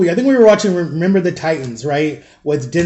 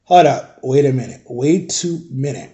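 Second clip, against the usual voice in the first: lower, slowing in disbelief; retold stunned objection, pitch sinking; incredulous halt; 4 semitones lower than usual. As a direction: stop the accuser cold, dragging the last words.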